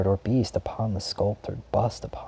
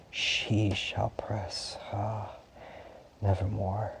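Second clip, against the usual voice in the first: hushed sorrow; 5 dB quieter, slower than usual. Acted. Mournful aside about lost Lenore.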